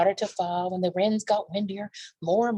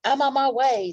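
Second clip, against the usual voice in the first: eager dash; 7 semitones higher, 5 dB louder than usual. Acted. Nibs rushing out.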